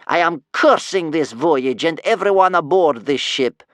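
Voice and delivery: put-on loud, slow, rasping old-woman rant; scary granny venting doom-filled rage; furious cursing grandmother. A narrator's reading. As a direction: spit out the curse, swelling to a high pitch. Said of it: "she spat into the darkness".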